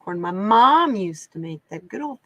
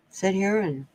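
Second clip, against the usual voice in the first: munching popcorn. Real, not acted. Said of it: "Sorry, I've been eating popcorn".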